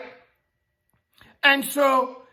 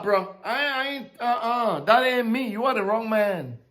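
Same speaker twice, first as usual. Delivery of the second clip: mild awe. Retold or imitated. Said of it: "He was like".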